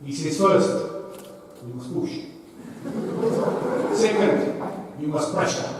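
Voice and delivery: mock Afrikaans-accented rugby coach laying down the three P's; Afrikaans English accent. Speaker imitates the Afrikaans teammate's best English in a hammed-up Afrikaans accent. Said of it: "he had to pluck out his best English".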